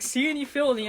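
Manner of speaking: "Cyanide filling" smeared into "seeny-fillanya"; poorly enunciated slogan. Retold or imitated. Co-host imitates the film's unclear slogan, "Cyanide filling" mashed into seeny-fillanya. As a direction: run "Cyanide filling" together as one mushy nonsense word. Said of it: "they never enunciated it correctly".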